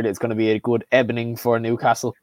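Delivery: put-on light Spanish accent, ebening for evening; a mock Spanish-accented Emery quote; Unai Emery impression. Doing Emery's Spanish accent for his mates on the podcast. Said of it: "I'm gonna make an Emery joke again".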